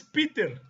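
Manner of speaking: Peter said as in English; English pronunciation. Shown as a demonstration. Lecturer listing Pedro in other languages, English pronunciation of Peter. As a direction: give Peter its English sound. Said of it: "que en inglés es".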